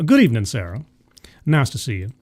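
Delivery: put-on playful Southern-accented welcome; southern twang. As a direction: greet her with a light Southern twang. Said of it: "Do I put on my southern twang".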